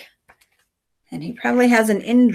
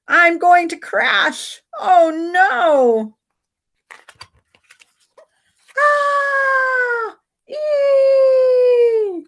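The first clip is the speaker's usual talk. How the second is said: high, slow frightened cry rising to screams; crash panic; 3 dB louder, much slower than usual. Acted. Samson crashing his bike, crying out in fright.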